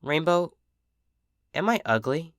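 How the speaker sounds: soft, hushed plea; barely above a whisper, hurt. A narrator's reading. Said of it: "whispered the less she returned".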